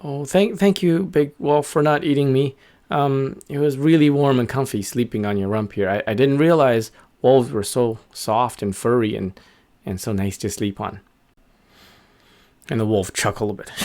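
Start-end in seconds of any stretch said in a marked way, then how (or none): 0.0-11.0 grateful little bird. Acted. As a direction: play a small bird thanking a big wolf.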